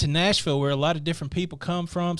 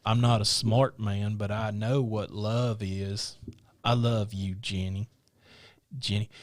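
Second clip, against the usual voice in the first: low, slow movie-quote voice; slow, low impression declaring love to Jenny; film character impression; 7 semitones lower, 3 dB quieter than usual. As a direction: do a slow-talking movie sweetheart, pitched low.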